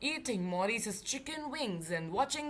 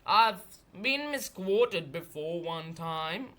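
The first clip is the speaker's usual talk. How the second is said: deep gravelly Bigfoot; 4 semitones lower, slower than usual. Acted. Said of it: "deep, gravelly voice".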